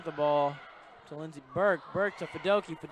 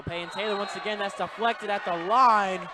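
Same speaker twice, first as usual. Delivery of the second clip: excited call; 4 semitones higher, 8 dB louder than usual. Acted. Fast rally call.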